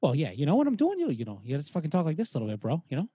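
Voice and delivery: lightly voiced Boston tough-guy celebrity; a touch of hammed-up Boston accent; Mark Wahlberg. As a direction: talk like a cocky Boston bro. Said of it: "It's me, it's fucking Mark Wahlberg".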